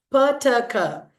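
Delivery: "Per turker" as puh-tuh-kuh; voiceless sounds. Shown as a demonstration. Teacher repeats the question to class, puh-tuh-kuh. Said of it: "They are voiceless".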